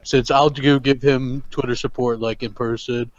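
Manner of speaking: lightly put-on deadpan drone; low, unhurried mock vlogger; Hellhammer impression. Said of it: "doing Hellhammer the rest of the show".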